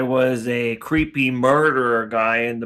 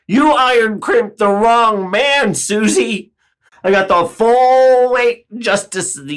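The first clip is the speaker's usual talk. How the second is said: indignant demand; 4 dB louder than usual. Acted. Demanding justice from Susie.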